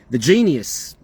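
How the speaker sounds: said with obvious sarcasm; mock-admiring, sarcastic title. Real, not acted. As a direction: label him with dry sarcasm. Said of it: "I'm obviously being sarcastic".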